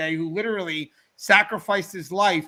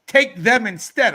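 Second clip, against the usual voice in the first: slow, louder imitation of sleeping mom; lightly acted plea, drawn out and raised; mother's nightmare bargaining; 4 semitones higher, 8 dB louder, slower than usual. Son imitating mom bargaining in her dream, pleading. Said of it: "she says".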